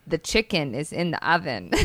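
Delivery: flat, even monotone reminder. Retold or imitated. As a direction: say it like a bored robot. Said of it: "really monotone voice".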